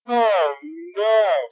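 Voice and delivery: mock dismay; dismayed cry. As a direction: gasp it out in alarm. Brother alarmed at crash.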